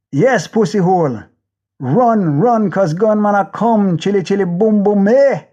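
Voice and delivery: yelling at people running from the gunmen; gunman's taunting yell. Acted. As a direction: jeer them off the street, building to a yell.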